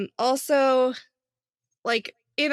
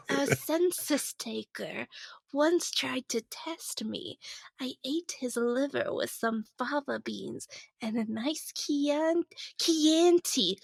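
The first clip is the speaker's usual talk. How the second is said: Hannibal Lecter impression; 5 dB quieter than usual. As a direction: hold back the Brooklyn, go soft. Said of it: "I fought the Brooklyn so hard".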